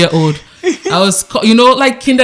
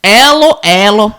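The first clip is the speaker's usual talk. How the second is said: put-on Nigerian accent; 4 dB louder, slower than usual. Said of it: "He had thick Nigerian accent".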